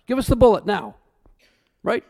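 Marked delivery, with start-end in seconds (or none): 0.1-1.0 defiant cry. Retold or imitated. Pastors defiantly choosing death.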